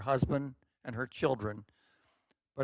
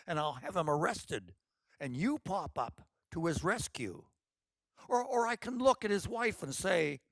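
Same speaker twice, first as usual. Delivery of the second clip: put-on bold older sister; 5 semitones higher than usual. Brave Orchid plans the confrontation.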